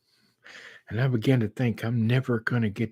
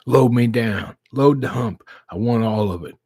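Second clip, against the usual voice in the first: loud, pushy order; greedy order; 7 dB louder than usual. Retold or imitated. Father tells the drive-thru lady to load him up, loud. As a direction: demand every drop. Ordering all the sauce excitedly.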